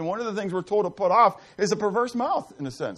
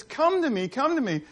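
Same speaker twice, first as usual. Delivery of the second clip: Wisdom calling out; 7 semitones higher than usual. Acted. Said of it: "wisdom, when it cries out and says".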